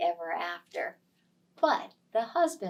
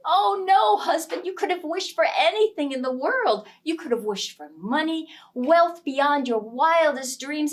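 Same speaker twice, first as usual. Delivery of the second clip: higher, louder exasperated scolding; wife scolding husband, higher and louder; 4 semitones higher, 5 dB louder than usual. Acted. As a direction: berate him for wasting a wish. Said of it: "she was scolding him over and over".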